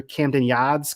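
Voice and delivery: lightly imitated heavy Boston accent. Podcaster quoting the new manager's words, imitated Boston accent. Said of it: "but Boston accent aside".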